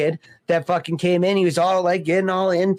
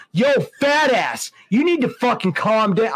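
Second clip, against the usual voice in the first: aggressive telling-off; 3 semitones higher than usual. Retold or imitated. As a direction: snap at the guy like you're redoing it. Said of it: "I was aggressive".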